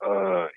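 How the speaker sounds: a half-hearted imitated grunt. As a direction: grunt like a passed-out guy rolling over. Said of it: "grunt and go".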